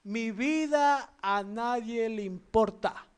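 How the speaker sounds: put-on slow, sulky child voice; a sulking child who feels ignored; childish sulk. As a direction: whine it like a pouting kid. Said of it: "¿Cómo habla como niño?".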